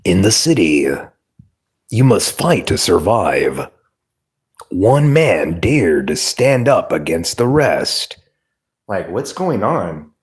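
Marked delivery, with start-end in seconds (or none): 0.0-8.2 lightly imitating a dramatic trailer narrator; movie trailer narrator. Mocking every movie trailer, mild trailer voice. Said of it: "every movie".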